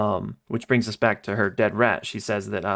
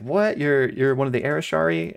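a much higher, half-playful gasp of shock; mock surprise; 4 semitones higher than usual. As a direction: act stunned at the news. Everybody reacts in shock.

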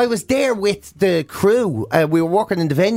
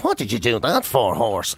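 mock dazed friend; 7 semitones lower than usual. Punched friend complaining.

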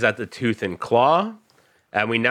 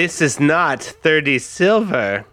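stern crime boss; 5 semitones higher, 3 dB louder, slower than usual. Acted. Rufio counts coins.

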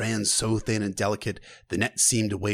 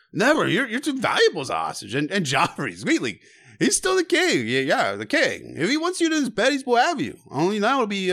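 high, wobbling tipsy fool; a fool's voice; 6 semitones higher than usual. Acted. Drunken fool warning Sansa in the godswood, high and wobbly. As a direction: play the sad jester, giggling and pleading.

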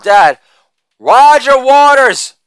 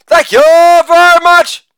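Imitation of a famous singer's voice; 8 semitones higher than usual. Acted. Sign-off in that singer's style.

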